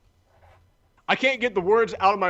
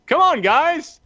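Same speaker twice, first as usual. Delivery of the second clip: high, rousing plea to a crowd; exasperated appeal; 11 semitones higher, 4 dB louder, much slower than usual. Retold or imitated. Announcer coaxing applause from a silent audience, exasperated appeal. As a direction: plead with the room, pitch up high.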